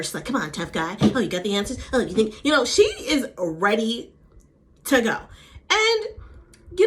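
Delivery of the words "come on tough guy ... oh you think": imitated taunting challenge; mock tough-talking provocation; baiting. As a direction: goad them like you want a fight. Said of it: "baiting her".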